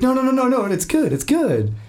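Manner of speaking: high voice imitating the wife; hammed-up high voice quoting his wife. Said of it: "She's like".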